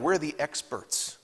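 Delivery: slow, mock-offended sarcasm; lightly voiced indignant Pharisee; sarcastic Pharisees. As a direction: scoff as a smug expert who feels insulted. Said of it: "a sarcastic tone".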